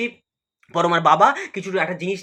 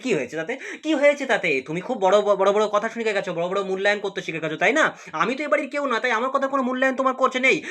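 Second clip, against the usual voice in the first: angry retort; 3 semitones higher, faster than usual. Acted. Boroma scolds Abhra for defending the couple, angrily sarcastic. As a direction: needle him, then push pitch up. Stepmother confronts son angrily.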